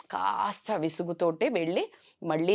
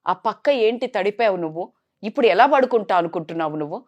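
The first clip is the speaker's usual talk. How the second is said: fast, louder scolding in retelling; retold angry yelling; 3 semitones higher, 4 dB louder than usual. Son scolding his mother over wet bed, retold yelling. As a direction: scold her, pushing faster and louder. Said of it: "అని గట్టి గట్టిగా అరిశాడంట".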